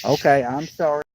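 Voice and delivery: apologizing mid-yawn; words stretched by a yawn. Real, not acted. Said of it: "No more yawning".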